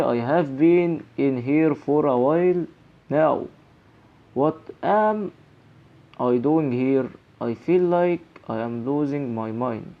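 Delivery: reading the game's lines slowly aloud; drawn-out dramatic reading of the notes; slow in-game diary read. Acted. Gamer reading the character's thoughts aloud, slow and dramatic.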